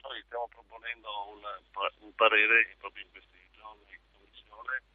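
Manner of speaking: distant speakerphone call; phone held away on speaker. Real, not acted. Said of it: "Lei sta parlando in viva voce".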